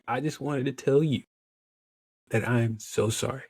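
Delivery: sincere apology. Retold or imitated. Retold apology to the tearful therapist.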